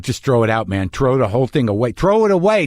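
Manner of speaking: lightly put-on Queens accent. Talking himself into tossing the cake, Queens accent. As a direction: grumble it like someone from Queens. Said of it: "I even said it in that accent".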